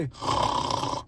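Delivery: snore like a sleeping grandma; snoring imitation. Shown as a demonstration. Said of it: "I'm talking like that".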